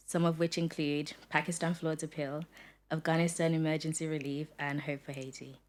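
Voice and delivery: polished host intro read aloud. Acted. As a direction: read the guest's bio like a show announcer. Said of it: "Going to do your intro".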